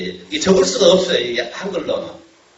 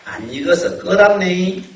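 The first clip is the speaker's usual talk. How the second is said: Jeolla dialect; 3 semitones higher, slower than usual. Retold or imitated. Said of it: "아까 말한".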